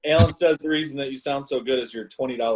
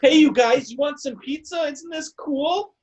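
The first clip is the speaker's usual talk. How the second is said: much higher, slow cheesy parent voice; trying to sound young; slower than usual. Pretend. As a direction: play a try-hard dad offering pizza. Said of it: "a parent's trying to sound young".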